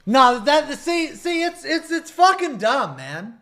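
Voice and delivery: loud, slow, heated complaining; griping loudly about the damage gap; loud angry rant. Real, not acted. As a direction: hammer each complaint home.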